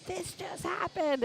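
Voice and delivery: mock-innocent high report; high slow quote. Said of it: "they're like".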